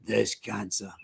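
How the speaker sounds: slow, deliberate, heavy vow; measured tough-guy vow, spaced out; impression of friend. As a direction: intone each threat slowly like a grim fighter. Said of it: "That's quite a good impression of him".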